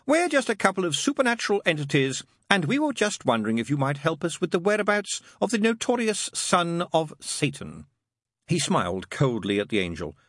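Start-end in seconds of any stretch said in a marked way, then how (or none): 0.1-7.9 high, lilting patter slowing at the end; sing-song. A narrator's reading. Crowley mocking Aziraphale before entranced Mary, sing-song. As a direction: chant it like a rote polite enquiry. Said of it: "in a sing-song voice".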